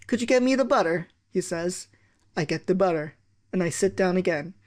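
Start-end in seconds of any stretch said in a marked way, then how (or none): 0.1-1.1 dad's request. Retold or imitated. Dad asks for butter.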